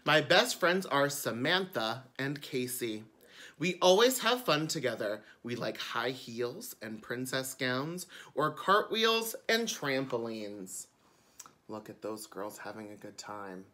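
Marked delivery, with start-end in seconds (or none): 0.0-10.9 bright storytime reading; children's book narration. A narrator's reading. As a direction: read it like a picture book to kids. Reads the book aloud.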